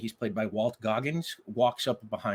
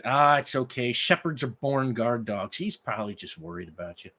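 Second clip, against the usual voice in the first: smiling reassurance. Acted. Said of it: "the man smiles and says".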